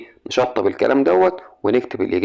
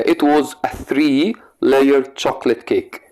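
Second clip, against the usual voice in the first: slow, word by word dictation; much slower than usual. Shown as a demonstration. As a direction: read it out slowly for the class to write. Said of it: "teacher dictating sentence slowly". (إملاء ببطء)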